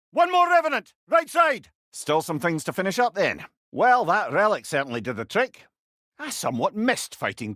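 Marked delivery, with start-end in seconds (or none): 0.1-1.7 loud, high shouted enemy warning; battle callout. Acted. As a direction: call out the threats over the din. Combat callout.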